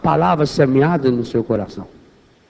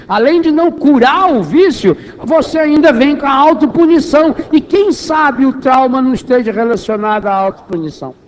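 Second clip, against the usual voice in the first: higher, louder, driving sermon delivery; impassioned preaching; 6 semitones higher, 3 dB louder than usual. Real, not acted. Preacher warning the congregation about fighting addiction, impassioned. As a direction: press the warning home with rising force.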